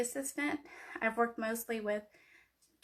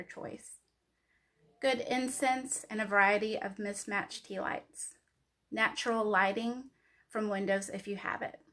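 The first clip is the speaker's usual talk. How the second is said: poetry reading. Acted. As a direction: read it like a spoken-word poem. Reads her poem aloud.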